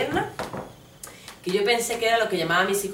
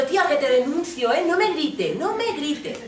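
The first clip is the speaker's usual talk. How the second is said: high, raised warning; indignant mock outburst; acted indignant protest; 7 semitones higher, 3 dB louder than usual. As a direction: tell off someone shouting at you. Acted threat to a shouting stranger.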